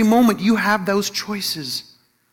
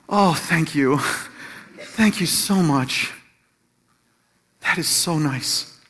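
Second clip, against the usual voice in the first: slow, relieved thanks; melting gratitude; 2 semitones lower, slower than usual. Retold or imitated. Wife thanks husband for lifting her burden, melting and relieved. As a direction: imitate someone melting with gratitude. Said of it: "she just melted".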